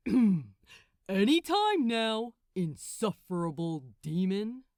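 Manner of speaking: a superior archangel tapping his foot; Gabriel, impatient. Acted. Gabriel impatiently prodding the demon Crowley.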